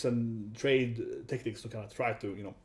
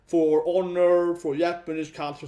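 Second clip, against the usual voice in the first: mock angry company; 2 semitones higher, slower than usual. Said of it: "Toei is like".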